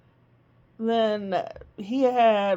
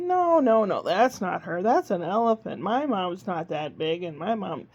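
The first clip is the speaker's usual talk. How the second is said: a hint of a British accent, little lost monkey. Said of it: "read the little monkey as if he's a little British monkey".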